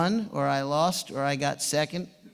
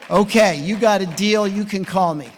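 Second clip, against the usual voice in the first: gruff agreement; 4 semitones higher, 7 dB louder than usual. Retold or imitated. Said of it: "And he said".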